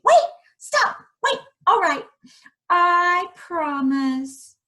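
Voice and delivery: high, loud plea to wait; calling out. Acted. Princess calling the frog back, high and loud. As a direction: call him back in a panic.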